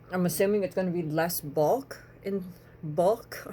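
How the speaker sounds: tripping over words with swollen lips. Real, not acted. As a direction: lips too puffy to say it cleanly. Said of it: "I can't talk".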